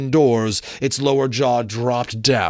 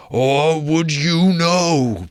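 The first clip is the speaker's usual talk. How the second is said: higher, slow wailing moan that swells loud; ghost lamenting; 5 semitones higher, 5 dB louder, much slower than usual. Acted. Marley's ghost explaining his doom, slow wailing ghost voice. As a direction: mourn it like a doomed spirit.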